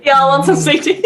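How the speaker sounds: put-on light try at a Southern accent; mild mock Southern accent. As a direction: echo the Southern host in a Southern accent. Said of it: "In a Southern accent?".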